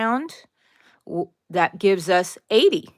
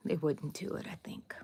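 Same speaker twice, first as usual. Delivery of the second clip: unvoiced little confiding aside; whispered aside; 3 semitones lower, 14 dB quieter than usual. Real, not acted. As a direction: whisper it off the record. Aside after joking threat.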